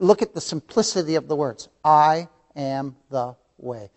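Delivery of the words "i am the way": each word slow and separate; slow quote. Shown as a demonstration. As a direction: lay each word down slowly. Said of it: "Four one-syllable words".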